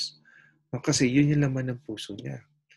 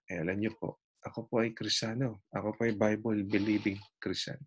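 gentle Christian. Retold or imitated. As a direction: answer the driver humbly and kindly. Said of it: "Ang sabi niya".

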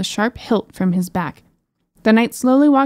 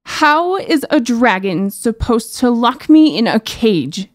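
angry shout; 3 semitones higher, 3 dB louder, slower than usual. Acted. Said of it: "she screamed".

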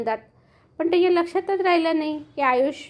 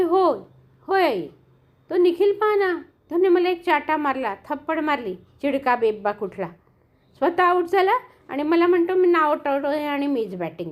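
upset complaint; 3 semitones higher than usual. Acted. Girl complaining to her mother about Nikhil, angry. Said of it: "रागात घरी आलेल्या अवनीला".

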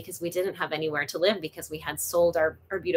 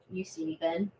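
cooing softly; 9 dB quieter than usual. Real, not acted. Cooing to kitten on camera.

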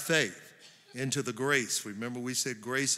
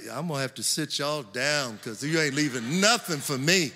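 joking quote; 2 semitones higher, 4 dB louder than usual. Retold or imitated. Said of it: "I'm like".

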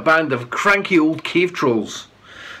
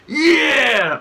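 shouted interjection; 8 semitones higher, 3 dB louder than usual. A narrator's reading. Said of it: "another cut in".

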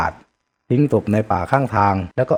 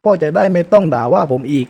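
bitter dare; 6 semitones higher than usual. Acted. Son keeps daring his father.

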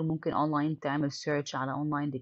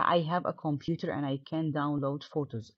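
slow reading; much slower than usual. Shown as a demonstration. Teacher reading the textbook dialogue to students, slow and clear. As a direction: read "do you have a computer to do your homework" slowly and clearly. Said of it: "reads textbook dialogue aloud".

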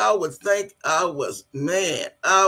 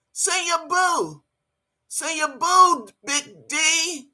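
teasing; 7 semitones higher, slower than usual. Real, not acted. Taunting Big D.

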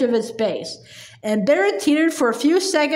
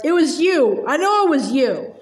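accusing roar. Acted. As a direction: hammer home the accusation. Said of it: "she roared".

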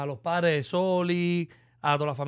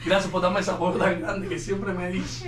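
crying thanks. Real, not acted. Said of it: "Él está llorando".

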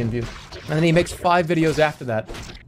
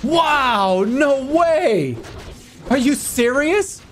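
YouTuber voice; 9 semitones higher, much slower than usual. Acted. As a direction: gush like an excited YouTuber. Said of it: "The grandson has the YouTuber voice".

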